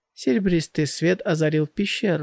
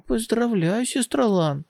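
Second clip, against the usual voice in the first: high, bright cheerful cry; joyful congratulations; 6 semitones higher than usual. Acted. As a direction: cheer for her sister. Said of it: "Моюде радостно закричала".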